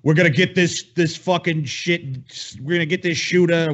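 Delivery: lightly voiced Trump bravado; natural Trump. Friend imagining Trump's rally reaction, mild blustering Trump. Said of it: "just be natural Trump".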